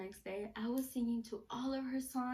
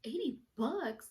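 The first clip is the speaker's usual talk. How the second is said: drawn-out, incredulous echo of a price; slow astonished question; disbelieving. Retold or imitated. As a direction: stretch it out in disbelief. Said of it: "I was like".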